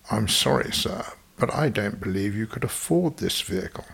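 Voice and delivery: put-on a lightly done posh Etonian English accent; a hint of a snooty upper class English salesman. Salesman turning away a Cockney customer, mild Etonian English accent. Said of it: "in a very upper class English, Etonian voice".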